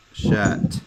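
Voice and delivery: "shat" with a released final T; pronounced as ta. Shown as a demonstration. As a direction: finish "shat" on an audible T. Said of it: "pronounce it as a ta".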